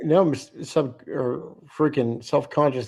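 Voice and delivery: words broken by a yawn. Real, not acted. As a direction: stumble through a yawn. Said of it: "all I can do is yawn".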